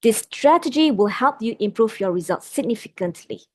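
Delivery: significantly brought down low at the end; certain, falling tune on significantly. Shown as a demonstration. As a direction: close on significantly going down, sure of yourself. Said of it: "with a lower pitch".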